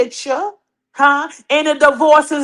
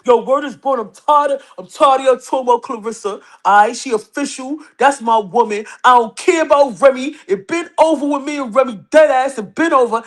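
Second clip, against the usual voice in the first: husband's voice. Pretend. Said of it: "So I'm using my husband's voice".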